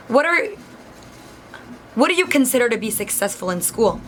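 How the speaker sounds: halting question with a long pause; imitated sceptical interviewer. Interviewer doubting the applicant's GPA, mock sceptical and halting. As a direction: mimic him questioning what counts as success. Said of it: "acting out exactly what he was doing".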